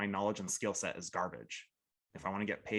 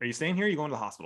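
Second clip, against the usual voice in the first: mock cocky, confident, raised, pitched-up take-charge voice; 7 semitones higher, 7 dB louder than usual. Retelling how he now speaks to people at a call: imitating his confident self. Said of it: "the confident asshole".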